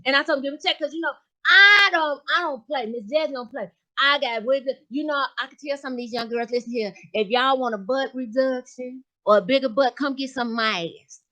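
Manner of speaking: sassy gossiping lady voice, lightly voiced; Miss Jazzy character voice. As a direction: play a brassy gossip.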